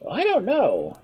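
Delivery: careless. Acted. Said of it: "he remarked carelessly".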